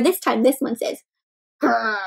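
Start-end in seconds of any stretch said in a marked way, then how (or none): 1.6-2.0 small, low tiger growl; restrained grumbling "grrr"; little growl. A narrator's reading. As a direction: growl mildly, a little upset. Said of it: "a bit of a growl".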